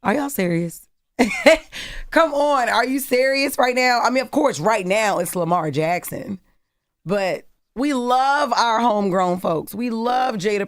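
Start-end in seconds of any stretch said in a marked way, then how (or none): 0.0-4.6 laughing at a ridiculous question; laughing disbelief. Real, not acted.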